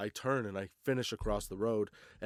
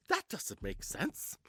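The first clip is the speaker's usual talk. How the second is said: high, drawn-out mock protest; incredulous protest; 9 semitones higher, 4 dB quieter, slower than usual. Drunk cyclist arguing with the cop, incredulous. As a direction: stretch it out high in disbelief.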